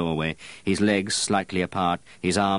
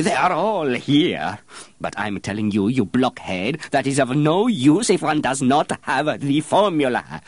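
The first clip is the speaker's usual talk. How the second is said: angry master perfumer; 8 semitones higher, 5 dB louder than usual. Acted. Master perfumer scolding apprentice as blockhead, loud. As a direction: thunder at the blockhead. Baldini shouting on.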